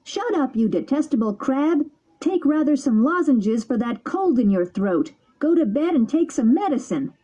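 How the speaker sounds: high, cheeky puppet snapping back; rude retort. Acted. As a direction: sass the old crab off. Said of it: "said rudely to him".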